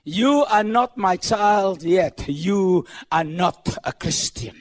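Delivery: slow, grave God voice; God speaking. Acted. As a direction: pronounce it slowly like a stern God.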